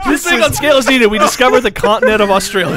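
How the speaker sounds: fast, high, laughing rush. Real, not acted. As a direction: blurt it out mid-laugh. Laughing fast mock announcement.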